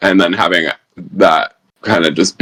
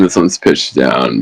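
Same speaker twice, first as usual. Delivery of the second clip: lower pitch; 6 semitones lower, slower than usual. Shown as a demonstration. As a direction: voice dropped well down.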